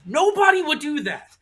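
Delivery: exasperated yell at a screen, retold; mock yelling. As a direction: retell it as a high, indignant rant. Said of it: "I was yelling at the screen".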